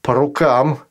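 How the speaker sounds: "рукам" stressed, brief rising; young man agreeing. Acted. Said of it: "сказал стажар".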